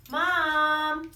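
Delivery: put-on high, loud child call; lightly voiced child calling; calling mom. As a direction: call out like a little monster child. Little Monster calls to mother.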